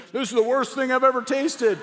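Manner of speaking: a sister's mock-disgusted verdict, half laughing. Sister teases Jeff about his terrible cooking, laughing mock disgust. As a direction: laugh through the insult like a teasing sister.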